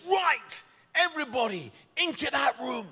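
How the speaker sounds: high, loud midwife's command; taking control. Retold or imitated. Midwife herding everyone into the room, loud commanding call. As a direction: order everyone about with urgent force. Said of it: "I've got to take control".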